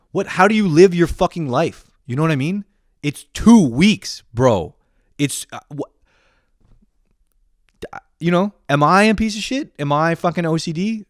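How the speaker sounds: high, loud incredulous outrage; furious rant. Retold or imitated. Ranting at a friend who won't commit, furious. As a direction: pitch it way up in exasperated disbelief. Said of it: "I was so fucking furious".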